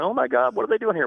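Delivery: high-pitched imitation of panicked homeowners; mock freak-out. Guest imitates homeowners finding wildlife indoors, mock freak-out. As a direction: act out a startled homeowner, pitch jumping way up. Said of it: "people are freaking out".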